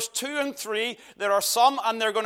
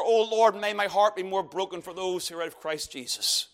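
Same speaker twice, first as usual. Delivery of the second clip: sample prayer; 3 semitones lower than usual. Shown as a demonstration. Preacher voices a sample prayer.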